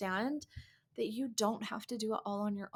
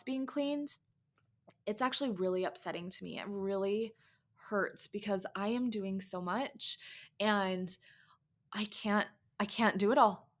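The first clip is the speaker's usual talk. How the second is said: sincere plea. Shown as a demonstration. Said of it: "express what we are feeling to our husbands".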